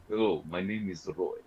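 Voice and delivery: Russian accent; Russian mercenary character voice; Roy. Shown as a demonstration. Player demos the character for the group, Russian accent. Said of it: "it'll be like this".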